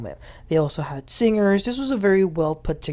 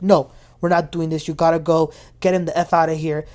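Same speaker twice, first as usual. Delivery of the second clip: angry warning; 5 dB louder than usual. Retold or imitated. Husband confronts the ambusher.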